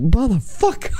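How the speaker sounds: high-pitched mock outrage, breaking into laughter; Samuel L. Jackson. Retelling the man Venom fell on, Samuel L. Jackson style. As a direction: imitate an outraged curse through laughter. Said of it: "like a Samuel L. Jackson moment".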